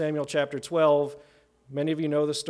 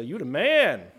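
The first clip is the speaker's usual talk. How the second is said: casual praise; 5 dB louder than usual. Retold or imitated. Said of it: "twenty-first century culture likes to say".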